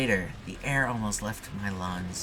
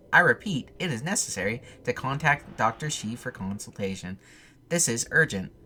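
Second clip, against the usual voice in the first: urgent repeat; 2 semitones higher, 3 dB louder than usual. Acted. Recorded phone message repeating.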